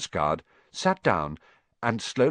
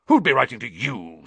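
sneering; 4 semitones higher, 6 dB louder than usual. Acted. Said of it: "sneered Uncle Vernon".

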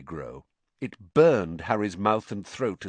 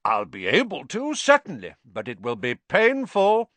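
grim warning; 4 semitones higher, 3 dB louder than usual. Acted. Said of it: "said Madam Pumphrey grimly".

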